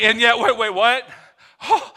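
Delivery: sudden baffled double take; puzzled angel. Acted. Angel startled by God's mercy, sudden surprise. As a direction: stop short, utterly confused.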